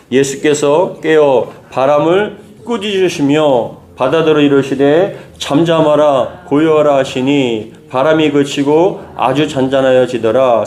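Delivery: slow, solemn Bible reading; scripture reading aloud. Shown as a demonstration. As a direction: read the verse slowly for the congregation to follow. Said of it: "같이 읽겠습니다".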